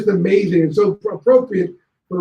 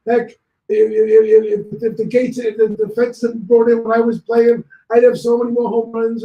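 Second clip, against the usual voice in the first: voicing DiMaggio; 4 semitones higher than usual. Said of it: "Joe's talking".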